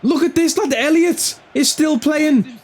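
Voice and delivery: high, exasperated complaint; furious disbelief at the screen; fuming. Real, not acted. Gamer fuming that a player is still on, exasperated. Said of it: "I'm actually fuming in real life".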